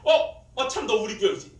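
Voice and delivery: loud, high mock realization; oblivious group leader. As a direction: act as if suddenly remembering. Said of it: "나 몰라라는 구역장한테는". (뒤늦게 깨달은 척 높고 크게)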